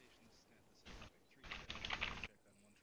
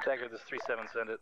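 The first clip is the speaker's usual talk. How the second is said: loud radio call over static; crackly military radio; 18 dB louder, faster than usual. Real, not acted. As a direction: bark it into the handset.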